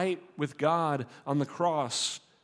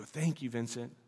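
quiet, lower thank you; soft thanks; 6 semitones lower, 8 dB quieter than usual. Pretend. Receiving the painting from Vincent, soft thanks. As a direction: say it softly, receiving a gift. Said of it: "you go".

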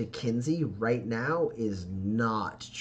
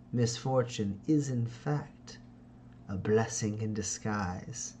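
sheepish schemer; slower than usual. Acted. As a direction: drawl out the excuse like a silky politician. Ferdinand excuses the misfortune.

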